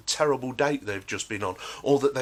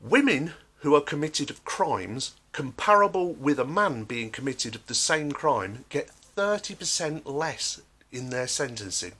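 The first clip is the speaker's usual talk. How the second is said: normal talking voice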